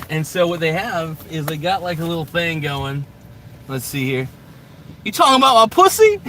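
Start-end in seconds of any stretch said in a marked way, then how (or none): 5.1-6.2 high, loud, jokey challenge; high mock tough-guy voice. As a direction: bait them like a movie tough guy. Rereading his own joke line.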